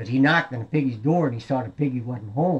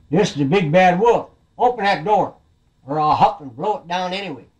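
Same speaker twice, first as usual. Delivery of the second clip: louder, raised wolf threat; big bad wolf; 5 semitones higher, 5 dB louder than usual. Wolf demanding the piggy open the door, forceful. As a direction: threaten like a storybook villain.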